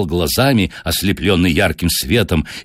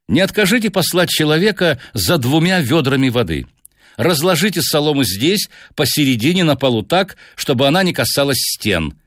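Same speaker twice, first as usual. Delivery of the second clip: higher-pitched, courteous detective; Holmes giving orders; 6 semitones higher than usual. Acted. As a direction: voice the detective politely directing, pitched up. Narrator voices Holmes.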